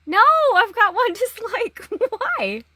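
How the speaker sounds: high, loud wail with a laugh in it; mock dismay. Vlogger bemoaning a first dislike, mock-dismayed. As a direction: lament it in hammed-up dismay.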